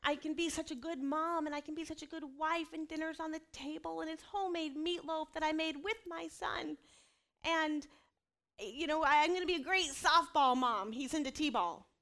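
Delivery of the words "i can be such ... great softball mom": lightly raised, chirpy self-pep talk; playing her own overly cheerful morning self; mock upbeat optimism. A mother mimicking her hopeful self, upbeat and raised. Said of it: "there are days I wake up and I'm like".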